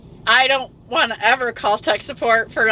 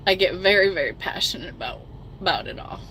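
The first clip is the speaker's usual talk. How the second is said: choked up; 3 semitones lower, 5 dB quieter, faster than usual. Real, not acted. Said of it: "I'm sorry I was crying".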